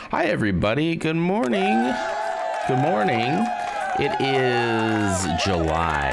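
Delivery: high, drawn-out hello to the viewers; drawn-out stream greeting. Real, not acted. Host welcoming stream viewers in the morning, drawn-out greeting.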